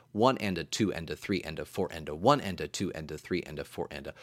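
one and a two and a, lilting count; counting triple subdivision. Shown as a demonstration. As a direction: count each beat in three. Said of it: "a triple subdivision of the beat".

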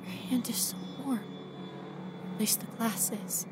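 soft, unvoiced hush; awed whisper. Touching Rachel's hand on the glass, awed whisper. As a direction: breathe it in wonder.

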